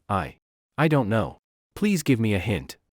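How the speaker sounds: hesitant, pleading, a bit unlike her own voice; confused. Acted. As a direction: stammer it out, unsure and pleading. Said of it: "saying in confusion".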